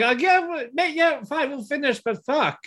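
high, sarcastic grudging sigh; grudging mock quote. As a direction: sound like you're forcing yourself through. Mock reluctant viewer quote.

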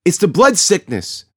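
high, loud fearful cry; a scared voice in the crowd shouting about the plague. A narrator's reading. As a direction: cry out over the murmur of the crowd. Another crowd member shouts.

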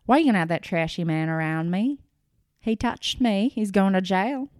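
fast, hammed-up angry rant; imitated tirade. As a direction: fire it off at the producers. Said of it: "starts going off on the producers".

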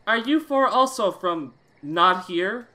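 high, loud, slow British stranger; British accent. Acted. British stranger questioning four travellers, in a British accent. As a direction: ask slowly and loudly as a British newcomer. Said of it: "I'll make him British".

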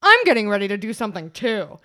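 loud interrupting announcement; lightly imitated politician cutting in; Hillary Clinton. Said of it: "you hear Hillary Clinton go".

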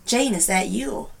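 soft, slow imitated question; hushed wonder. Imitating mom addressing her late sister, hushed. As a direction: ask it gingerly, slow and quiet.

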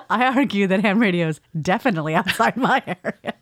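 said fast with a laugh creeping in; rapid-fire. Real, not acted. Podcast host arguing ham radio is outside their area, rapid-fire. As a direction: rattle it off quickly, amused. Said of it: "you said that so fast".

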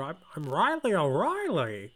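lilting, badly faked Irish accent. Co-host playing Riley O'Reilly, bad Irish accent. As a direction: try an Irish brogue that misses. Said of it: "This is my Irish accent".

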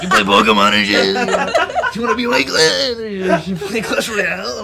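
loud mock kid chatter; eager kids firing questions, hammed up; excited kids. Brother retelling students' questions to him, excited.

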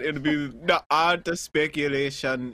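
lightly voiced Jamaican accent. Shown as a demonstration. Co-host showing how a real Jamaican would say it, light Jamaican accent. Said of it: "ask a real Jamaican to do that".

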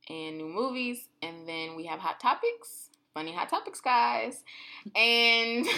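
lightly done radio announcer; radio host voice. Acted. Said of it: "Why you sound like you're on a radio station?".

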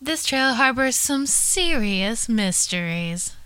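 lightly theatrical read-aloud; dramatic quote reading. Acted. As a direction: read it out like a storyteller setting up a mystery. Reads a trail quote aloud.

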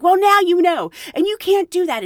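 a hint of a furious coworker snapping; imitated angry outburst. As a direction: play his fury, lightly. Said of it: "red in the face, steam coming out of his ears".

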